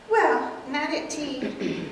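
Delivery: very slow, prim reply; a proper old lady; prim aunt. Acted. Aunt explains to Mortimer, prim and slow. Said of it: "take several characters".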